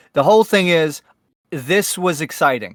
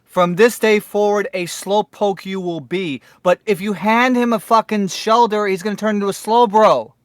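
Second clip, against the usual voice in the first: pompous British voice; 3 semitones higher than usual. Retold or imitated. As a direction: puff up like a pompous British Ash. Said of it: "in his freaking pompous British voice".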